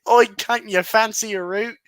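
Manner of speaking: loud Liverpudlian come-on, hammed up; mock Liverpool accent. Guy trying a pickup line in a mock Liverpool accent. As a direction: slide into a Scouse accent. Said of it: "you went, uh, like, northern".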